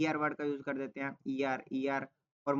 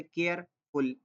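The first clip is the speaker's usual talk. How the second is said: slow syllable demo; much slower than usual. Shown as a demonstration. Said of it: "एक बार रुकना पड़ता है".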